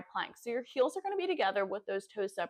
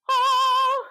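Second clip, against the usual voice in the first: surprised yelp; 10 dB louder than usual. Real, not acted. Startled mid-workout exclamation.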